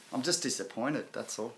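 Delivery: mock-wounded murmur; mock disappointment. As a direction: act hurt but keep it light. Mock sulk after being replaced.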